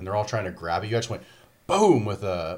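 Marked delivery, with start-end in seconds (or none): 1.7-2.0 loud, punchy "boom"; imitated explosion. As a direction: voice the blast with a burst. Imitates a grenade going off.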